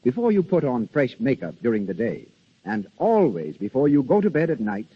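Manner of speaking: smooth persuasive radio commercial voice; ad read. Acted. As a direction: sell the soap like a thirties announcer. Soap advertisement read.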